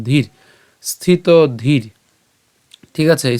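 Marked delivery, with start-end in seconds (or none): 0.8-1.9 স্থিত ধীর slowly, ending on a sounded r; pronunciation demo. Shown as a demonstration. Teacher explains the r sign, স্থিত ধীর slowly with final r. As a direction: draw out স্থিত ধীর and close on r. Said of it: "উচ্চারণ করে ফেললাম".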